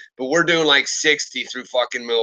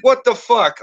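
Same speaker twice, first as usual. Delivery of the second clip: high, disbelieving squeak; exasperated friend; 10 semitones higher, 4 dB louder than usual. Retold or imitated. Cop friend scolding the dad, high mock exasperation. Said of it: "He's like".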